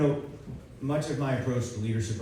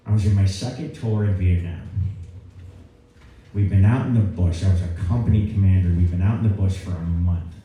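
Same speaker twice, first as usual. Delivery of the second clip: louder mock general's voice; imitating the general; 5 dB louder than usual. Four-star general recalling Vietnam to a cadet, louder imitated general voice. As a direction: channel the old general's voice, a notch louder. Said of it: "He talks like this".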